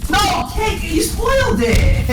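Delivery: very high-pitched, drawn-out protest; indignant yelp. Real, not acted. Storyteller to listener who gave it away, indignant yelp. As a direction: wail it high at the spoiler.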